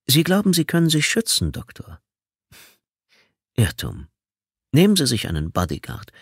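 lightly voiced taunting killer on the phone; a hint of a mocking phone stalker; menacing caller. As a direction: toy with him, calm and sinister.

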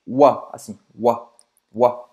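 "wa" said on its own, open and round, like "oi" run into "a"; the wa sound. Shown as a demonstration. Teaching the "oi" in "Loire" as wa. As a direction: drill "wa" again and again. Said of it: "O som wa".

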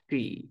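"she" with a long hushing SH; English SH. Shown as a demonstration. Teacher models the pronoun "she" with a drawn-out SH. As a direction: hush into "she", as in sha. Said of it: "como sha, she".

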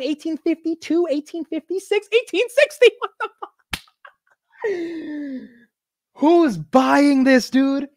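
climbing pitch as the price climbs; rising excitement. Real, not acted. Watching ticker climb live.

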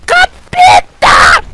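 long, loud, piercingly high shriek; shrieking at a monster; terrified scream. Real, not acted. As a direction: scream the curse, stretched out.

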